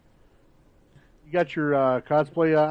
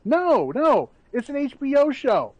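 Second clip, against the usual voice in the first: defensive actor; 9 semitones higher than usual. Retold or imitated. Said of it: "And they're like".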